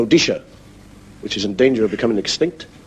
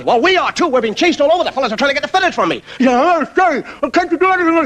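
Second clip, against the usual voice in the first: fretful fantail. Acted. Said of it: "And the fantail says".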